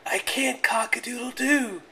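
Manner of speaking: high, strained rooster voice; sore-throated rooster. Acted.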